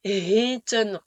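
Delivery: HETEN with an audible H at the start; clearly pronounced H. Shown as a demonstration. Teacher warning French learners, clearly sounded H in "Heten". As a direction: breathe out a clear H to open "Heten". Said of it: "attention à bien prononcer le H".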